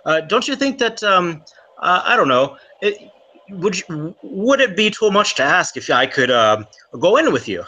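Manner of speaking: coaxing, wheedling Irish charm; butter him up to get in; charming schmooze. Acted. Irishman schmoozing Remy to get into the library, coaxing. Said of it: "I'm trying to, like, schmooze him".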